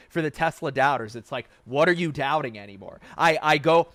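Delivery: ordinary talk, nothing marked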